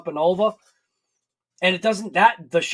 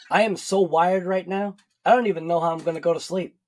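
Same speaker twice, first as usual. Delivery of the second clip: wired; faster than usual. Real, not acted. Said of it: "I feel like I just drank, like, six cups of coffee".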